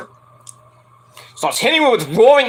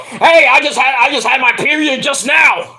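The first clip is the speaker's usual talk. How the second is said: mock women's chorus; 5 semitones higher than usual. Women replying to Page with a high chirpy shout. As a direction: call it out cheerily. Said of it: "all the women are going".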